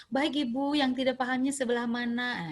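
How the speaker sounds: gently courteous question in an even voice; pleasant, patient reply. Acted. Health educator to a confused mother, patient and pleasant. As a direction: ask politely, willing to explain. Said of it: "itu kan enak".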